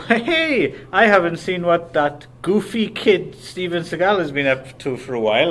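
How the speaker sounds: chirpy high "Hey" then breezy; like spotting an old pal; casual mock surprise. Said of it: "the concept behind this was".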